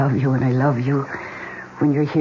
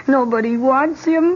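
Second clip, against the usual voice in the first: pitying coo; 13 semitones higher than usual. Acted. Pitying the stray dog.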